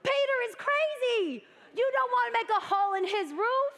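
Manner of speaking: emphatic excited exclaim. Real, not acted. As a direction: preach it with rising wonder. Excited climax about Peter.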